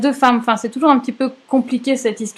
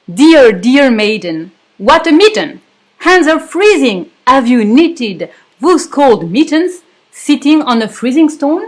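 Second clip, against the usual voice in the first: mocking verse; 3 semitones higher, 4 dB louder than usual. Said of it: "à l'opposé".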